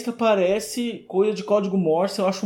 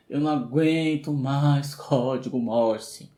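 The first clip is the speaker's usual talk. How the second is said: slow, low, weary complaint; fed up; 4 semitones lower, 4 dB quieter, slower than usual. Real, not acted. Podcaster venting about Morse code in films, fed up. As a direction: drag it out, exasperated.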